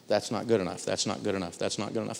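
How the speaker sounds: low, soft, repeated brush-off; understated dismissal. Retold or imitated. Negotiator sending staff's report back several times, low understated dismissal. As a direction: send them back out, low and unimpressed.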